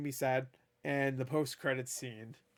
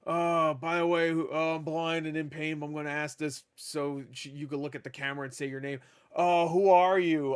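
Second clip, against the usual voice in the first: a hint of a pained villain voice, louder at the end; mocking Wesker; 4 dB louder than usual. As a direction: parody a hammed-up villain line. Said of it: "and he's like".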